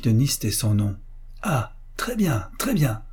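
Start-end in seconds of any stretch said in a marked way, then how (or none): 1.4-3.0 whispered, higher mocking snicker; sneering snicker. A narrator's reading. Mother-in-law gloating over the photo, whispered sneer. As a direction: cackle it under the breath with spite. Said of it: "ricana-t-elle".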